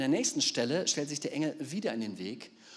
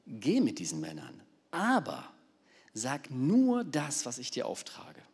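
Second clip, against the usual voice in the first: commanding angel; 4 dB louder, slower than usual. Acted. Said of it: "befahl ihm".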